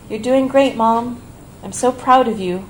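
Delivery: mild excited praise. Retold or imitated. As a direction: cheer her on to a frail mother on the phone. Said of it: "I add excitedly".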